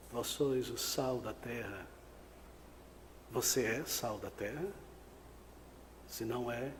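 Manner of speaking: low, soft, searching preacher; hushed appeal. Real, not acted. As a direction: drop right down and put it gently to the congregation. (apelo em voz baixa e grave)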